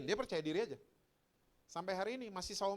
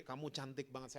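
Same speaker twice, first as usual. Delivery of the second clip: put-on soft fatherly murmur to a child; tender father; 2 semitones lower, 7 dB quieter than usual. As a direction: say it softly, full of affection. Father tenderly telling daughter she's pretty.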